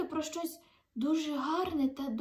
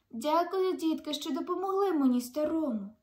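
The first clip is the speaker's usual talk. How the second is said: moved thanks; 4 semitones higher, 4 dB louder than usual. Acted. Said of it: "схвильовано мовив".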